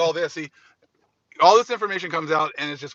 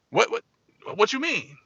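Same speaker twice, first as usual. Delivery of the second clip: mock shock; 6 semitones higher than usual. Man shocked at judgment.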